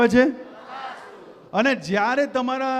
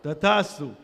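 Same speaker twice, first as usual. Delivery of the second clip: lower, grave blessing from the heavens; voice from above; 7 semitones lower, 3 dB quieter than usual. Acted. Speaker voicing the heavens granting wishes, low solemn blessing. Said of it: "ઉપરથી અવાજ આવશે".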